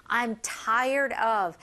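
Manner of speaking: slow, stretched out; slow model phrase. Shown as a demonstration. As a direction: say it slowly for learners.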